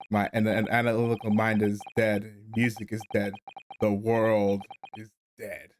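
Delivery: emo despair. Acted. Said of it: "he's in his emo phase".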